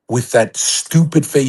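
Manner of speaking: "stupid" drawn out slowly; stress on stupid. Real, not acted. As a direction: lean on "stupid" with scorn. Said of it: "that stupid face women make".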